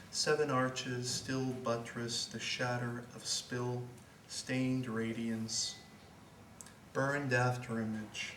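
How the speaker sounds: measured, lyrical recital with pauses between phrases; deliberate literary reading, easing down at line ends; poetry reading. Acted. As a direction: recite the poem, letting each image settle. Reads poem to audience.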